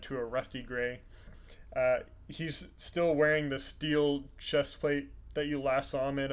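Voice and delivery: measured descriptive storytelling; game master narration. Acted. Game master describing an old dwarf to players, measured narration. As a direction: paint the character detail by detail.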